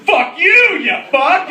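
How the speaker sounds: high, loud mock-angry retort; hammed-up squawk of indignation; flustered comeback. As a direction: blurt it back in outrage. Stunned comic comeback, acted.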